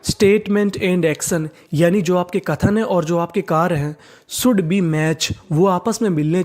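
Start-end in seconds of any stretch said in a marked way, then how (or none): 0.0-1.5 very slow, word by word; slow dictation. Shown as a demonstration. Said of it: "तो पूरा sentence क्या बना?". 4.3-5.3 very slow, word by word; slow dictation. Shown as a demonstration. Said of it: "तो पूरा sentence क्या बना?".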